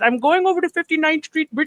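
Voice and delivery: put-on Indian accent. Retelling repeating back a cab driver's answer to him: imitating an indian accent. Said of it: "repeated back to him his answer in the Indian accent".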